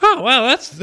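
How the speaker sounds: surprised. Real, not acted. Surprised by dean's call.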